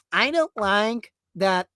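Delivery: slow, fussy disapproving parent voice; mock the censorship group's prissy complaint; lightly voiced prudish busybody; prim complaining parent. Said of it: "basically going".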